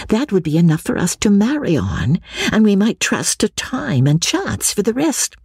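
high character voice, eagerly laying out a plan; Lucy, confiding schemer. Acted. Lucy sets out her scheme.

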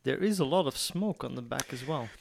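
muffled, mouth inside a whisky glass; talking into a glass. Real, not acted. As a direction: speak with the glass at your lips. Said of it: "You've been talking to your glass".

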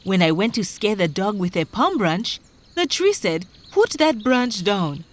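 high, urgent complaint; worked-up farmer's recital; agitated farmer. Acted. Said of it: "began to recite their troubles".

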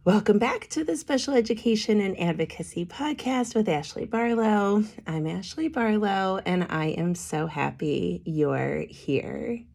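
hoarse, worn-out voice; voice giving out. Real, not acted. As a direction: voice giving out from smoke. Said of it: "I am so sorry about my voice".

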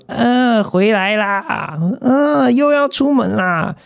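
high, chirpy mock doorman greeting; nosy doorman. Mimicking the chatty building manager, high and sing-song. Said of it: "他每次看到你都要寒暄个几句".

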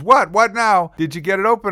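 high, pestered questioning; exasperated answer. Retold or imitated. Rick answers from balcony, exasperated questioning.

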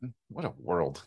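low, soft, corny mock innocence; fake wholesome. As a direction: play it gosh-darn wholesome. Mock reaction to burglary story.

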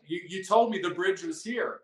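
"told" lightly stressed, a hint of protest; half-hearted imitation of a tired hiker's complaint that "told" him; mock complaining hiker. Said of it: "they're like".

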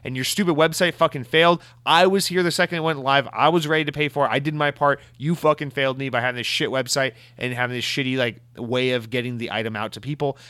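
mock indignant rant, easing off at the end; mildly heated complaint on others' behalf; imitated outrage. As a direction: imitate outraged customers venting in a stream. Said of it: "immediately outraged".

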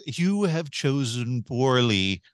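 solemn grail knight. Acted. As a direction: deliver the verdict like an ancient knight. Mock solemn movie-quote verdict.

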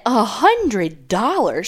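slow, drawn-out retold disbelief; incredulous. Friend's dare to eat a roach, mock incredulous. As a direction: stretch it out, scoffing at the offer. Retells scoffing at the offer.

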